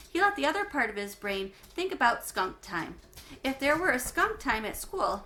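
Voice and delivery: clear, lively read-aloud for a class; story narration. A narrator's reading. Teacher reading a chapter book to her class, lively narration.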